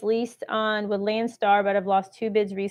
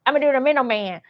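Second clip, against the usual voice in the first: lightly voiced middleman, a touch eager; a hint of a hustler announcing his plan; much faster than usual. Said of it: "That's my middleman voice".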